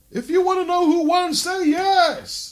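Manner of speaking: very high, goofy, silly announcer voice. Mimicking how a man delivered a serious moment, imitating someone sounding like a right idiot. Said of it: "he sounded like a right idiot".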